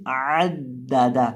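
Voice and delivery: आद दा दा, opening from mid-throat; low, deliberate आद दा दा with squeezed first vowel; throaty ayn demo. Shown as a demonstration. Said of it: "आइन की आवाज़ आएगी". (عَدَّدَ حلق کے بیچ سے عین)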